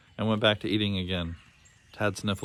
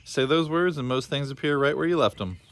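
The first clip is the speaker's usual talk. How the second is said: lightly voiced old caretaker; 6 semitones higher than usual. Old Booney explains the boondocks to the lost boy, lightly voiced. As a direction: explain the place like a friendly old keeper.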